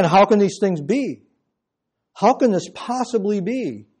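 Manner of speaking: mildly baffled question; a little astonished. Acted. Nicodemus questioning what Jesus told him, a little astonished. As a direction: puzzle over it with a touch of astonishment. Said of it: "he's a little bit astonished".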